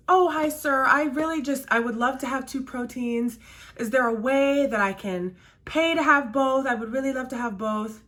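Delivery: suddenly sweet for the manager; sweet-talking customer. Retold or imitated. Customer sweet-talking the manager, mildly sugary. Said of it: "Changes her tune with him".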